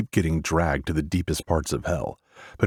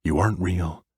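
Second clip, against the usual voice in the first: repeating to himself; 2 semitones higher than usual. Acted. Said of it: "I repeat like a broken record".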